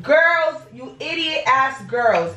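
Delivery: slow, scolding each word; exasperated scolding. Real, not acted. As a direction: call them out, drawn out. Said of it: "'cause it gets me so mad".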